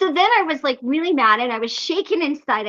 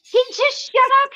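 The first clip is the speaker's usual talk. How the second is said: triumphant, raised and high; 9 semitones higher, 4 dB louder than usual. Real, not acted. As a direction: land the punchline proudly. Triumphant punchline repeated.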